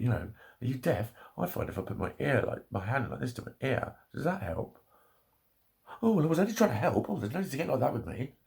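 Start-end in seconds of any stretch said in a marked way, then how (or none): 0.6-4.8 patronising mimicry. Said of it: "Stop telling deaf people". 6.0-8.3 high, fast, affronted voice; mock a huffy, offended helper; huffy offended mimicry. Vlogger mimicking an offended helper to viewers, high and huffy. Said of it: "carbon copy".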